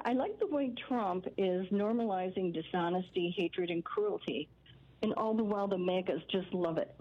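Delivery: understated deadpan sarcasm, slowing on the list; sarcastic. Real, not acted. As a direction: feign approval with dry irony. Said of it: "being facetious or sarcastic".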